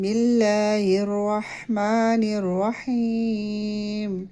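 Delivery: slow, drawn-out tajweed recitation; measured Quranic chant. Shown as a demonstration. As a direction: recite each word slowly and melodically.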